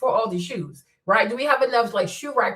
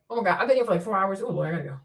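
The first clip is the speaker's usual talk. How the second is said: usual speaking voice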